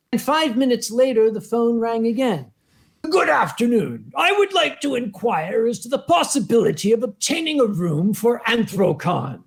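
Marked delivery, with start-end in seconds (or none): 3.0-9.4 pedantic caller. Retold or imitated. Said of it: "recognizable way of speaking ... pedantic".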